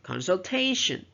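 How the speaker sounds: "consultation" with TA lifted, then falling; "consultation", punching its third syllable; stress on third syllable. Shown as a demonstration. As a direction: lean on the "ta" in "consultation". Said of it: "stress on the third syllables".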